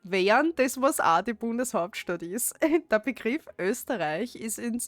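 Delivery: broad Austrian dialect read-aloud. Shown as a demonstration. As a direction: read it just as the dialect is spoken. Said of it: "as you would speak it in the dialect".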